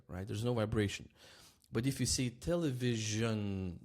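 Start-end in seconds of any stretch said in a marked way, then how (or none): 2.3-3.8 "television" with the zh held and buzzing; vibrating zh. Shown as a demonstration. Teacher showing throat vibration, buzzing zh. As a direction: draw out the voiced zh in "television". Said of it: "now your throat starts working".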